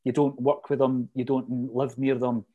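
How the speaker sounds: normal talking voice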